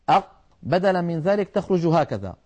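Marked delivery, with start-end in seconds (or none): 0.1-0.3 "أق" with the qaf shut, no bounce; qaf closed by collision. Shown as a demonstration. Tajweed teacher showing the closed stop, qaf without release. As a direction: end "أق" with the two points of articulation colliding. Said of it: "بتصادم طرفي المخرج هكذا".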